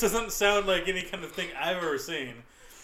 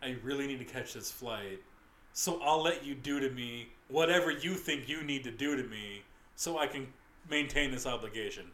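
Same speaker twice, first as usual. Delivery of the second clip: mock resigned; 6 semitones lower, 7 dB quieter than usual. Co-host imitates friend submitting to catch a flight, mock resigned. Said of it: "for your mindset to be like".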